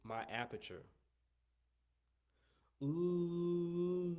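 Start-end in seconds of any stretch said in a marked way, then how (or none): 2.8-4.2 a sustained, higher ooh, jaw dropped; demo ooh vowel. Shown as a demonstration. Trumpet teacher shows students the open aperture with a held ooh. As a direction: shape the ooh to show the aperture. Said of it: "if you can see, ooh, that's what I'm doing".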